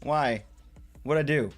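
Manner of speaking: playful screaming. Real, not acted. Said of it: "I don't know why I am screaming".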